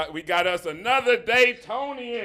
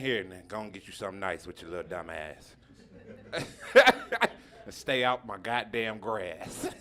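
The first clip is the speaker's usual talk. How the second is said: put-on old uncle; 14 semitones lower, 11 dB quieter than usual. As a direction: hand over money like a gruff old uncle. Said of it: "remind me of that uncle".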